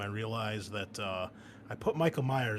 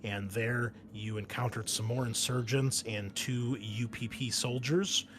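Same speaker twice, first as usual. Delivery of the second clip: game master scene setting. Acted. Game master briefing the marine squad on their mission, measured narration. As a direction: lay out the mission briefing deliberately.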